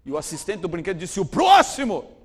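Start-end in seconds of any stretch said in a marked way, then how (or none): 1.2-2.2 loud, indifferent call; calling next. Retold or imitated. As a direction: bark the next name flatly. Ride attendant calls next.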